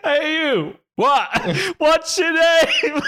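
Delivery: high-pitched, laughing mimicry of a caller; mock calling out. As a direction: parody a distant hail, cracking up.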